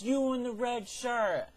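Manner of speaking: high, loud call across the field. Retold or imitated. Field boss summoning the narrator across the corn rows, calling out. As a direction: hail her from far off, slowly. Guy calling from twenty feet.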